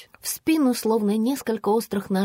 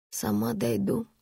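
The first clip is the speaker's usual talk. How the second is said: a much softer hiss; 7 dB quieter than usual. A narrator's reading. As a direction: hiss it through a clenched jaw. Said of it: "прошипела я". (прошипеть тихо)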